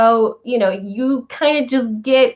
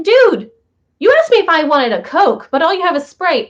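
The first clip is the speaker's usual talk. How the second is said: louder, higher dude, put out; indignant complaint; 4 semitones higher, 3 dB louder than usual. Retold or imitated. Teen complaining to the host about Sprite, louder and indignant. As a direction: call out the host's mistake. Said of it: "And I was like".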